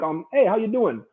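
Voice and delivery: lightly voiced, low and hesitant mumble; vague mumbling friend. Imitating the Rasta friend's vague ramble. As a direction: mimic a friend rambling nowhere in vague terms. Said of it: "always talk in confusing, vague, unspecific terms".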